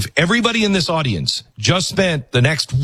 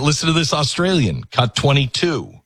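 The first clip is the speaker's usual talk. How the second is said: usual speaking voice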